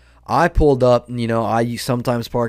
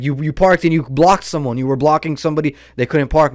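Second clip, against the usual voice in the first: mildly raised mock accusation; imitating spazzing man; 2 semitones higher, 3 dB louder than usual. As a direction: act out a worked-up accuser. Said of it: "he was spazzing".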